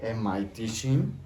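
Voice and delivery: rising question tune on teaching; question rise. Shown as a demonstration. Teacher showing students the question tune with a rise. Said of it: "la entonación de pregunta".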